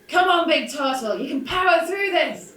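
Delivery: loud rallying yell, slow start; calling from far away. Acted. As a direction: shout encouragement across the field. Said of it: "I'm gonna yell over to Tim".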